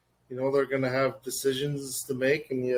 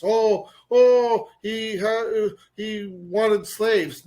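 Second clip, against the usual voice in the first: high, loud, drawn-out whining; mock outrage; 6 semitones higher, 6 dB louder, much slower than usual. Guest mocking the Dundas renamers, high mock outrage. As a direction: imitate indignant complainers, pitched up.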